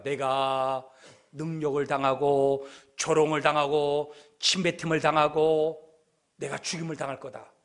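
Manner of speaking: low, slow monotone with drawn-out phrase ends; solemn foretelling. Acted. Jesus foretelling his death to disciples, low and solemn.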